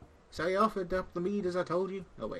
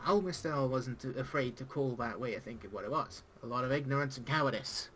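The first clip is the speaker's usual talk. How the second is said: pirate-esque speech. Acted. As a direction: play the gruff old tavern pirate, not too broad. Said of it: "pirate-esque speech".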